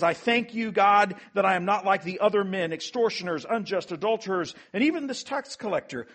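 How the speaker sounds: self-satisfied Pharisee's lofty prayer; proud Pharisee praying. Acted. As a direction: boast to God like the smug Pharisee. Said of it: "The Pharisee is praying, remember? And he says".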